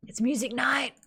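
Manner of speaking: hushed, half-whispered excitement; breathy whisper before the big announcement. Real, not acted. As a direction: whisper the news like a little tease. Announcing concert, first softly then full out.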